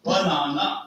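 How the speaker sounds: BANANA broken into measured syllables; stress pattern demo. Shown as a demonstration. Teacher showing students meter in a word, stress pattern demo. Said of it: "ba is something which I have stressed".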